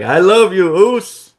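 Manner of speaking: high, loud declaration of love; emotional Jay. Acted. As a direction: call it out high and loud to your partner. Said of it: "says Jay".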